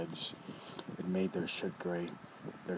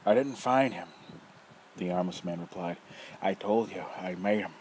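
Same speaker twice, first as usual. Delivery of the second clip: put-on teasing old rogue. Nefer voice.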